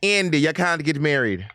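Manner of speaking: put-on slow, high Caribbean accent as a pop singer. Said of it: "This accent".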